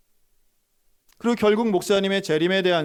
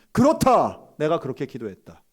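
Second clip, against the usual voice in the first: defiant admission; 5 dB louder than usual. Retold or imitated. Pastor declaring to police he prayed so, loud defiance. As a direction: own it boldly.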